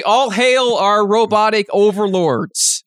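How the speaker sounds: high, slow mock-herald salute; mock proclamation. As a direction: proclaim it grandly in fake devotion. Mock salute to robot overlords.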